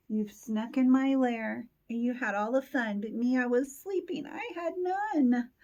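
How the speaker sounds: hammed-up wail, rising at the end; crying Bear. Bear cries over the missed party, mock wailing. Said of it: "He's crying".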